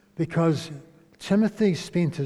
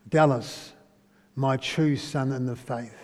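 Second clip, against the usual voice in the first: tender address; 3 semitones lower than usual. Shown as a demonstration. Preacher addressing a man as his spiritual son, tender. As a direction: speak it gently, like a father.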